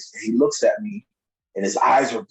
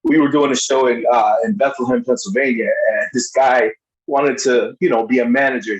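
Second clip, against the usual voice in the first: louder, insistent storytelling; emphatic; 6 dB louder than usual. Real, not acted. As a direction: push every line harder.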